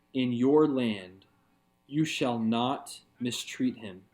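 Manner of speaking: slow, deliberate scripture reading. Real, not acted. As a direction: read each phrase slowly with pauses. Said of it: "I'm gonna read it slowly".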